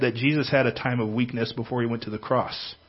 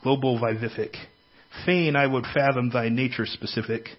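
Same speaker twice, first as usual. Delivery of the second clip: reading a poem. Shown as a demonstration. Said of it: "I'm gonna read you a poem".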